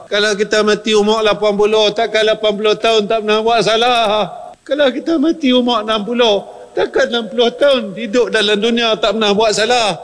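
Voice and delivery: high-pitched, driving sermon voice; rising fervent preaching. Acted. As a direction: build it up and press the point. (khutbah yang makin memuncak dengan nada tinggi)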